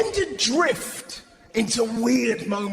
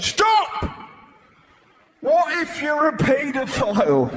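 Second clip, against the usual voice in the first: alarmed inner voice; 4 semitones higher than usual. Retold or imitated. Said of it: "my brain honestly went".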